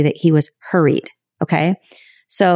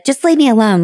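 put-on childlike; 6 semitones higher than usual. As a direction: say it like a hurt child. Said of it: "like, very childlike".

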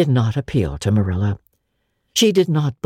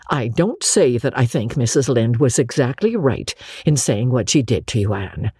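gently admitting, quieter at the end; softer tone. Acted. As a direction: soften toward the girl. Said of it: "she admitted in a softer tone".

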